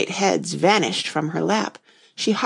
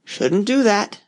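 muttering frog; 2 semitones higher, slower than usual. Acted. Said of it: "the frog muttered".

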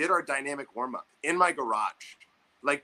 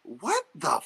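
slow, loud, higher disbelief; 5 semitones higher, 5 dB louder, slower than usual. Retold or imitated. Reacting to the coach's rule, slow loud disbelief. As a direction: drag out the shock. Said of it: "I was like".

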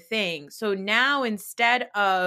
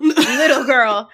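mock condescending; 3 semitones higher, 10 dB louder, slower than usual. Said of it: "repeating quote".

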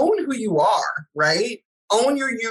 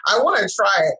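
eager regret; 5 semitones higher than usual. Pretend. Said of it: "you wanna be like".

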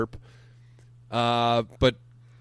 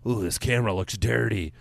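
swooning, mock-impressed gush. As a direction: gush like a starstruck fan. Mocking gushing Oscar voters.

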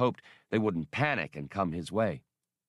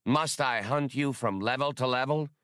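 lightly hypnotic, higher pitch; mesmerizing; 4 semitones higher than usual. Acted. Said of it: "Ul Rashan's hypnotic voice".

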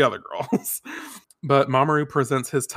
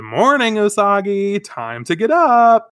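put-on higher, louder, slow little girl voice; sing-song wake-up call, slowed and lifted; Chibiusa; 8 semitones higher, 6 dB louder than usual. Voicing Chibiusa waking her.

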